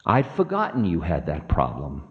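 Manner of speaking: low, smug Demon King; smiling taunt. Acted. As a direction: needle him with a low-pitched smile. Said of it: "smiled the Demon King".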